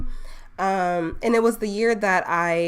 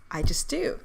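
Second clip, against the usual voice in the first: whispered aside. Real, not acted. Embarrassed aside after accent.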